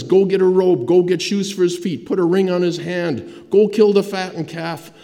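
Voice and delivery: acted yell. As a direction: call brisk orders to the servants, mildly yelled. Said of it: "he yells at the servants".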